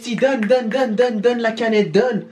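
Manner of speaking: pleading fast, high and urgent; desperate for a drink; urgent begging. Real, not acted. Begging for drink after gross bean.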